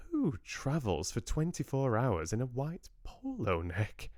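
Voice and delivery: awed, lifted question; a touch of amazement; in awe. Acted. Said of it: "said Lottie in awe".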